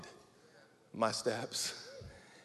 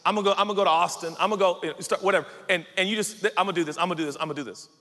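brash, hurried pile-up of plans; presumptuous planning; 4 dB louder, much faster than usual. Acted. Planner keeps listing places to go, brash and presumptuous. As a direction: rattle off plans with cocky certainty. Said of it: "you can't talk like that".

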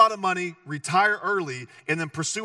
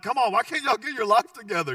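crotchety Jesus; 5 semitones higher than usual. Pretend. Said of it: "more crotchety and angry".

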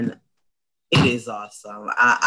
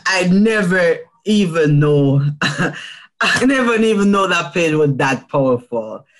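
higher, laughing through the words; 4 semitones higher than usual. Real, not acted. Guest laughing about how powerful her poem felt, laughing. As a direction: giggle it out in wonder. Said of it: "It was so powerful".

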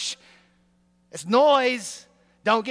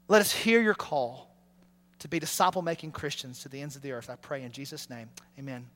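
prayer closing. Acted. Pastor ends the prayer.

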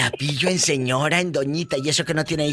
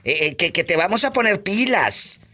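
to someone hard of hearing; 5 semitones higher than usual. Real, not acted. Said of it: "Habla más fuerte".

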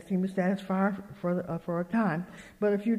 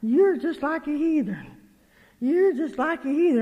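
high, emphatic scolding; retold rebuke; 7 semitones higher, 4 dB louder than usual. Speaker to her fretting friend, emphatic retold scolding. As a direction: drive the accusation home with raised voice.

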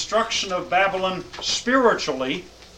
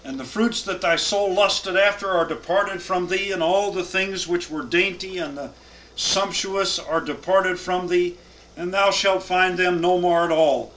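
raised, measured Bible reading; solemn scripture reading to a class. Acted. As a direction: read the verses out with weight. Reads scripture aloud.

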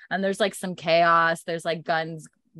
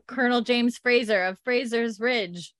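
raised-pitch formal declaration; mock loud announcement; 4 semitones higher than usual. Roger announcing himself to hidden gunman, mildly declaiming. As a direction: declare name and rank. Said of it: "speaks loudly".

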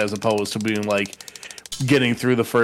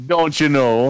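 put-on Minnesota accent; slower than usual. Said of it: "Minnesota accent".

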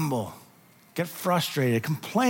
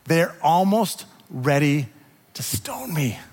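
whispered despair; 2 semitones lower, slower than usual. Retold or imitated. Moses crying out to the Lord, whispered. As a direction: let it drop to a hushed whisper.

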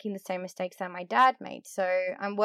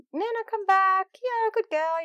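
much higher, sing-song call to the dog; high-pitched dog call; 10 semitones higher, 4 dB louder than usual. Retold or imitated. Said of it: "I would call her with my high tone, my high pitch".

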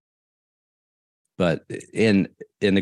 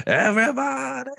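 put-on drunk voice. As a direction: call it out like a tipsy party host. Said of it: "my little drunk voice".

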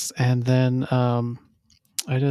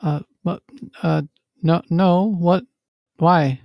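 quick flustered denials, a touch louder; feigned innocence; 4 semitones higher, 3 dB louder than usual. Acted. Rel denying to the crewman, flustered. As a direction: play dumb, defensively.

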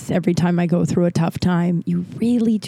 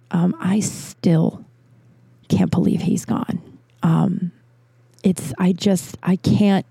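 grieving; slower than usual. Real, not acted. Grieving the loss of Henry.

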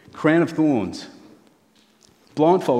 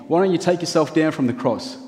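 a touch of a jeering crowd, a bit higher; mild mocking sneer at a man on a cross; 5 semitones higher than usual. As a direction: taunt him lightly from below the cross. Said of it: "jeering, mocking".

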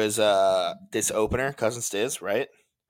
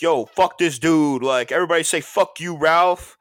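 mock heckling; 6 semitones higher, 6 dB louder than usual. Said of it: "he was like".

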